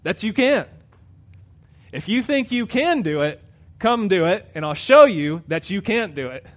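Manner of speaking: God answering, a hint of challenge rising; voicing God. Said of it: "you know what God says?".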